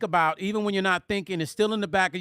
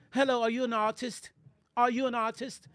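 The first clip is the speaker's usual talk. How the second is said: put-on European accent; 3 semitones higher, 4 dB quieter than usual. Woman at gas station approaching a stranger, mock British accent. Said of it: "she was talking like this".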